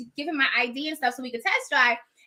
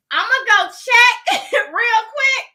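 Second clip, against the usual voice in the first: laughing; 8 semitones higher, 6 dB louder, slower than usual. Real, not acted. Laughing while leaving.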